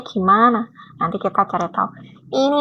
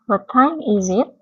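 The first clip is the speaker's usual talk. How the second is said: each word read out slowly and clearly; slow model reading; slower than usual. Shown as a demonstration. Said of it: "Yang pertama". (dibaca pelan sebagai contoh)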